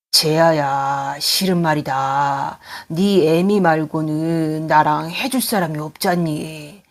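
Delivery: a hint of an old father, slow and hushed; lightly voiced weary father, drawn out. Old father confesses to son.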